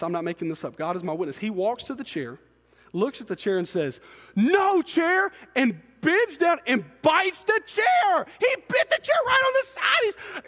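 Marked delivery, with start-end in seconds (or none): 4.4-5.3 high, loud imitation of an indignant little boy; toddler scolding. Two-year-old turns on the chair that hit him, scolding. 5.6-10.4 loud, high-pitched storytelling climax; incredulous outburst. Real, not acted. Father telling how his son bit the chair, incredulous.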